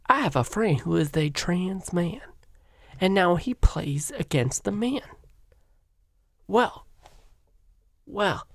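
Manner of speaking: mock Southern woman accent; Dylan Mulvaney. Guest telling of a friend, mock Southern woman accent. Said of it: "a Southern woman accent".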